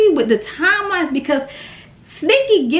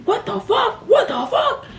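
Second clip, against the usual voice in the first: mock shocked man; 8 semitones higher than usual. Boyfriend's shocked reaction.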